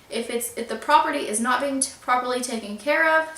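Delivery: tripping over the words while reading; stuttering slightly. Real, not acted. Vlogger reading the landlord's message aloud, stuttering a little. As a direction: restart and stumble mid-sentence. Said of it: "sorry, I'm stuttering a little bit".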